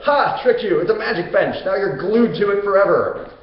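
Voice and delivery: gloating trickster, high and loud; Hades. Retold or imitated. King of the afterlife springs his magic bench trap, gloating. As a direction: crow over the victim of your trap. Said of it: "Hades is like".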